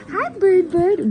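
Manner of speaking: high, sing-song hello to a bird; high bird greeting. Real, not acted. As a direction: coo it like talking to a pet.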